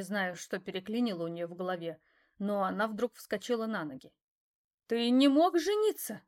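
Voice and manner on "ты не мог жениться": sharply louder and higher, demanding; raised voice. A narrator's reading. Mistress raising her voice at her ex-lover. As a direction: throw the question at him loudly. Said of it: "повысила она голос".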